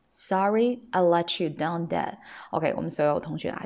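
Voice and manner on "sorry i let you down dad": "let you" joined as "le-chu" within the line; linked reading. Shown as a demonstration. Teacher repeating the line for students to feel, words linked. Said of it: "去体会一下这一读法".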